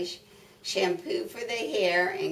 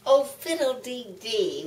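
dismissive farm lady; 3 semitones higher than usual. Acted. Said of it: "Missus Wishy Washy said".

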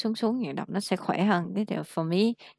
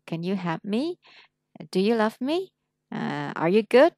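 "Can you help me? Do you love me?" each ending with a rising tune; lên giọng cuối câu hỏi; rising yes-no questions; 3 semitones higher, 3 dB louder than usual. Shown as a demonstration. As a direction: lift the pitch at every question end. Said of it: "thì mình lên giọng".

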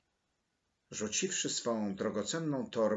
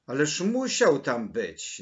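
loud, higher-pitched insistence; insistent; 4 semitones higher, 9 dB louder than usual. A narrator's reading. Maryla presses Mateusz about the boy, loudly insistent. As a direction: refuse to accept it, pressing loudly. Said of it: "nalegała Maryla".

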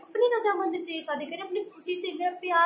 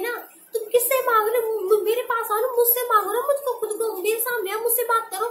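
louder and higher, daring them to face her; defiant challenge; 6 semitones higher, 5 dB louder than usual. Real, not acted. Bride dares her family to come ask her directly, defiant and loud. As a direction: call them out, fierce and raised.

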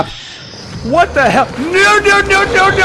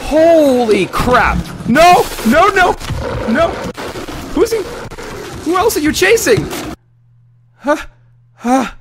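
terrified yelling; 11 semitones higher than usual. Real, not acted. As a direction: yell while running for your life. Still fleeing in terror.

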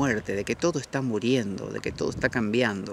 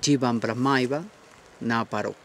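Sanskrit verse recited. Retold or imitated. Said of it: "dice Brahman Satyam".

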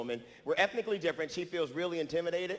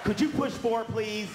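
raised, louder polite request; mock polite request; 4 semitones higher, 4 dB louder, much slower than usual. Comic to woman in elevator, raised mock-polite request. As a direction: call it out with put-on politeness.

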